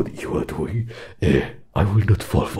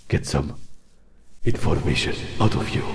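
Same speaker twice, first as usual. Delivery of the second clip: defiant; 4 dB louder than usual. Acted. Suspects a trick, pushes back.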